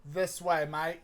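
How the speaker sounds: put-on Cockney accent. Dealer leads Poe off in Cockney. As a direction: wave him along in Cockney. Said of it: "that's a good Cockney".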